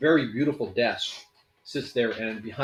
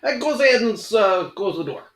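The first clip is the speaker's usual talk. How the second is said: high, loud squeaky kobold; 11 semitones higher, 9 dB louder than usual. Acted. Kobold ordering the party to shut the door. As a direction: pipe it up like a bossy little kobold. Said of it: "He goes".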